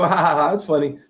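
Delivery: half-hearted imitation of amused laughter; mock laugh. Recalling his reaction to braggers, dismissive mock laugh. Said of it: "I just laugh and I go".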